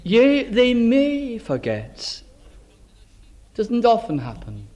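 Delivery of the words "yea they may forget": slow and tender, as God speaking; gently, slowly, like a loving promise. Acted. Preacher voicing God's words tenderly to the congregation. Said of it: "notice it's very tender".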